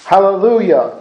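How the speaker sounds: full-voiced hallelujah; loud praise. Multitude's hallelujah in reading.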